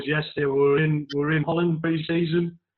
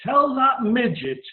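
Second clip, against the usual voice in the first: higher, slow bellow down the stairs; retold shout; 9 semitones higher, slower than usual. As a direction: yell it down the landing. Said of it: "Top of his voice".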